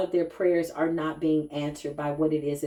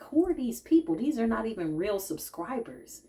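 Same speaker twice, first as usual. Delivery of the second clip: mock incredulous; 5 semitones higher than usual. Host recalling strangers on her page, incredulous. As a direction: act out baffled disbelief, starting high. Retells reaction to strange commenters.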